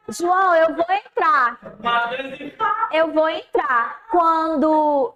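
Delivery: slow, steady, soothing; calm teacher. Retold or imitated. Teacher calming an upset student outside class, slow calm voice. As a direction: talk him down slowly and evenly. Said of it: "Eu falei assim".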